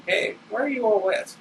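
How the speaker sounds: surprised. Acted. Surprised at wet friend.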